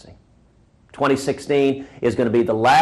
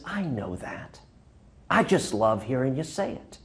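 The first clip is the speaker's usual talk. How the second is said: put-on twinkly old man; 4 dB quieter than usual. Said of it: "with a twinkle in his eye".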